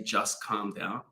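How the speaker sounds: quiet, low, reassuring; God soothing. Retold or imitated. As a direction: hush a frightened child, slowly. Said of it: "God is the only one that can say".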